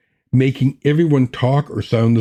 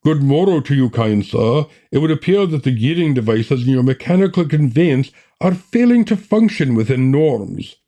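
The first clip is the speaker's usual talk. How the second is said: a hint of a stilted, archaic gentleman; overly formal mechanic; 2 semitones higher than usual. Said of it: "I just had to choose someone".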